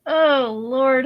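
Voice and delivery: teary laughing groan; laughing till eyes water; crying with laughter at herself. Real, not acted. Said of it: "my eyes watering 'cause I'm laughing so hard".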